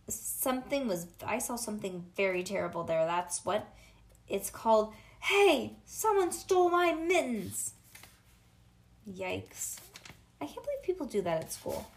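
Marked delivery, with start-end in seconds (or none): 5.2-7.7 high, loud yell of alarm; outraged cry. Acted. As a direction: cry out that you've been robbed. Discovers the theft, cries out.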